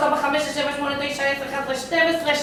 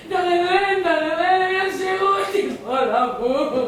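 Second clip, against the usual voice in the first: despairing wail; 3 semitones higher, slower than usual. Acted. Abandoned invalid rings and laments.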